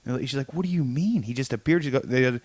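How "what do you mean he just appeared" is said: mock-baffled question, a little softer; incredulous question. She reacts to Doom turning up, incredulous. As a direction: ask it in disbelief, retelling her reaction. Retelling her baffled reply.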